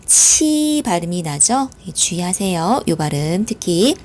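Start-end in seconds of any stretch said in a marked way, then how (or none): 0.1-0.8 치 stretched slowly with an aspirated "chi" sound; demonstrated q sound. Shown as a demonstration. Teacher explains the letter q, 치 said long as "chi". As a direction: draw out 치 to show that q sounds like "chi". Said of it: "이 큐 발음은요".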